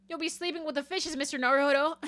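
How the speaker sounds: bad New York accent. Gangster-style threat to Mister Naruhodo, attempted New York accent. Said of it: "how to do a New York accent".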